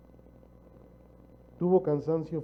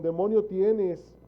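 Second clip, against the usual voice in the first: accusing quote; 4 semitones higher, 5 dB louder, much slower than usual. Retold or imitated. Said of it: "le dijeron".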